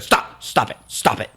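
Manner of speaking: voiceless, mock-irritated brush-off; retold irritation. Girlfriend fending off boyfriend's grab, mock irritated. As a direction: imitate an upset girlfriend, hushed repeated refusals. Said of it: "she was so irritated and so upset".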